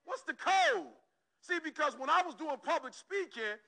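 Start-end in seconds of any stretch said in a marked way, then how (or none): 0.0-0.9 higher and louder, pressing the question; calling out for the code; loud demanding. Acted. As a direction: demand it of the room. Repeats the question, building.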